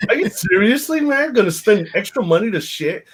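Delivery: teasing a co-host who would pay for storage; laughing disbelief. Real, not acted. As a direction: tease a friend in disbelief. Incredulous at co-host.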